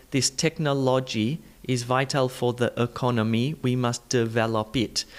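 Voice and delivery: South Indian English accent, every syllable given full vowels. Shown as a demonstration. Teacher shows learners what listeners hear, South Indian English accent. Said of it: "In your South Indian English way".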